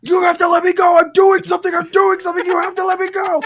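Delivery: frantic high yelling, repeated over and over; loud, high-pitched mock scream; imitated screaming. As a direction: act out a man screaming to be let through. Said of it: "he's screaming".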